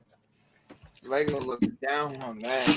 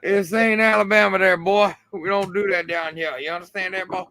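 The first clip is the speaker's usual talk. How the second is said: louder, higher mock Southern scolding; hammed-up Southern; 5 semitones higher, 4 dB louder than usual. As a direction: put on a laughing redneck telling-off. Mock Southern scolding after accent teasing.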